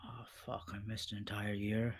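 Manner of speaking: quiet dismayed groan; dismayed, hushed. Acted. Father shocked at missing year.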